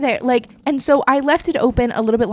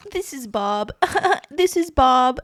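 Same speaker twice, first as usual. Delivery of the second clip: laughing; 4 semitones higher, slower than usual. Retold or imitated. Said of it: "and she was like".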